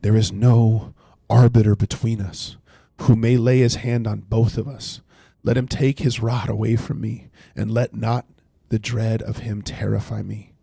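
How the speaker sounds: slow, weighty scripture reading; read slowly. Shown as a demonstration. Reads Job's plea for an arbiter slowly to chat. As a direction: let each word of the verse land. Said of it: "I wanna read it slowly".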